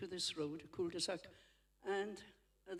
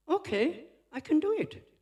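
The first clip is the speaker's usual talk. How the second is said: eager offer; 10 semitones higher, 11 dB louder than usual. Retold or imitated. Car washer eagerly offers to wash.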